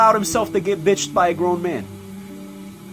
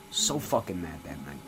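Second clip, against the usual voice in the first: much softer, lower echo of the line; wiseguy trailing off remembering the war, much softer; fading repeat; 11 semitones lower, 11 dB quieter than usual. Acted. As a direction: let "So fucking mad" drop away to almost nothing. Repeated memory line, faded.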